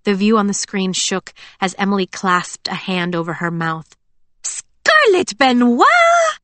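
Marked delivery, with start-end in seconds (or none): 4.4-6.4 much higher, very slow gasped name; stammered shock. Acted. Emily shocked at Scarlet's news, high stammer. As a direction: squeal her friend's full name in disbelief. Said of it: "she stammered".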